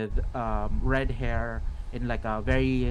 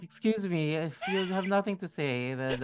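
higher, curt impatience; impatient captain; 6 semitones higher than usual. Acted. Captain to the silent party, a higher impatient prod. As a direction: cut them off, annoyed. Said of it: "the captain is like".

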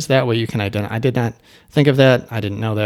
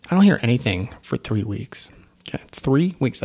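disbelieving whisper. Real, not acted. Stunned by the three-week silence.

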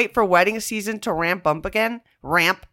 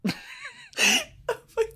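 laughing; 6 dB quieter, much slower than usual. Real, not acted. Laughing at her friend's tease.

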